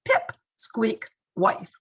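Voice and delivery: lightly imitating a macho caller joking; joking mock complaint. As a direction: playfully belittle the wife. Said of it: "the way he said it".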